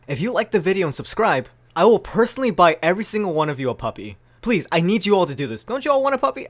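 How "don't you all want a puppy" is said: high-pitched coaxing; playful squeaky plea; cutesy coaxing. Pretend. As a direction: coo it high to the viewers. Jokey plea to viewers.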